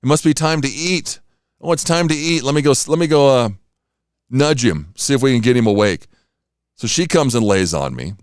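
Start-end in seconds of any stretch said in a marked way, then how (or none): 0.0-6.1 higher, eager cat voice, lightly put on; voicing the cat. Owner voices the cat wanting food at dawn, higher and eager. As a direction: play the cat begging for breakfast. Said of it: "because she's like".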